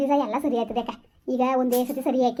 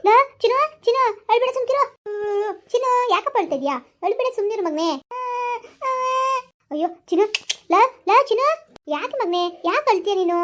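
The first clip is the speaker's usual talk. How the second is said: anxious, high-pitched soothing of an infant; hushing a crying baby; 8 semitones higher than usual. Acted. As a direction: coo urgently over the wailing baby, voice pitched way up. Mother soothing her crying baby.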